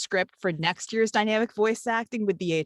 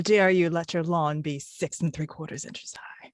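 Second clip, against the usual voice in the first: mock HOA busybody. Mocking HOA neighbours.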